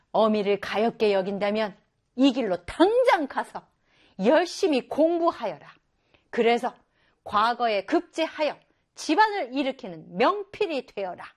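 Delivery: stern mother urging her son on; firm mother. Acted. Mother voiced in story. (엄하게 타이르는 어머니)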